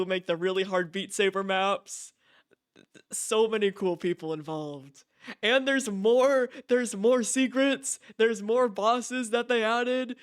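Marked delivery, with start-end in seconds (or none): 5.4-10.2 higher, louder, slow, leaning on every more; excited emphasis. Real, not acted. Streamer to chat listing the update's new content, bursting with excitement.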